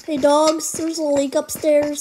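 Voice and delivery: calling out. Real, not acted. Calling out to his dogs.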